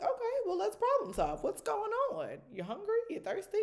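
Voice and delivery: high and bright, coaxing; high singsong mom. Retold or imitated. Mom offering her daughter solutions, high and cheerful. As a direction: coax her with cheerful questions. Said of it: "I'm like".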